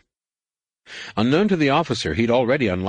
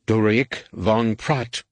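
shouted; 3 semitones higher, slower than usual. Acted. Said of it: "she shouted".

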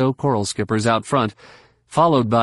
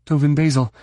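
exclaiming; 5 semitones higher, faster than usual. Acted. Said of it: "she exclaimed".

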